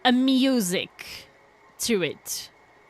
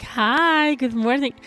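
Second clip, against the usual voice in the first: stream greeting voice; 2 semitones higher, 4 dB louder, slower than usual. Shown as a demonstration. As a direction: greet your chat like you're opening the show. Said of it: "I think it sounds different than the rest of the stream".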